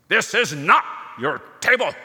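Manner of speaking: put-on heavy German accent. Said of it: "in a heavy German accent".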